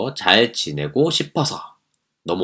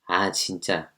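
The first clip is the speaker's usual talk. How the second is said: annoyed; 2 semitones lower, 8 dB quieter, much slower than usual. Acted. Annoyed sigh under breath.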